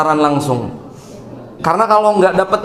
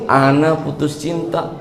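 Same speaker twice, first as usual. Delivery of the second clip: slow, lower, softer mock sob; whiny heartbroken; 3 semitones lower, 4 dB quieter than usual. A lovesick youth tells the spy, mock whiny. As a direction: whimper it like a weak lovesick youth. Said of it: "nangisnya tapi cemen".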